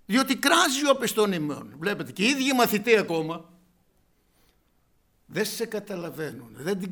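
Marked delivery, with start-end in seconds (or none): 0.0-1.8 impatient disciples. Retold or imitated. Preacher voicing the annoyed disciples, loud and high. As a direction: send her away, fed up. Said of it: "παρεκάλουν αυτόν λέγοντας".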